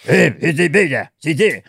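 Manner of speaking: grunts turning into syllables; early-human sounds. Retold or imitated. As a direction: caveman grunts becoming babbled speech. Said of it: "And then the sounds came up".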